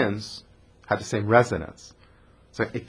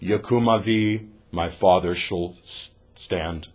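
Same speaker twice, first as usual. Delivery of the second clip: slow, low barked command; drill sergeant; 6 semitones lower, 3 dB quieter, slower than usual. Retold or imitated. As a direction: order him to stand like an army sergeant. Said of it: "like a drill sergeant".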